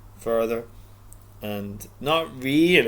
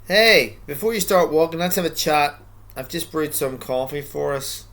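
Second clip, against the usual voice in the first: voicing God; 4 semitones higher, 5 dB louder than usual. God voiced in a story.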